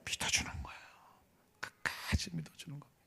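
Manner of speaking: hushed whisper on the key line. Acted. Preacher to church members, hushed whisper. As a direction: breathe the point to the congregation.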